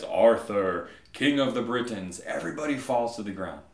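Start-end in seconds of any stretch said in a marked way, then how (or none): 0.0-2.2 lightly voiced God summoning a king; a hint of a booming movie God; God calling to Arthur. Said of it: "as soon as God appears, he says".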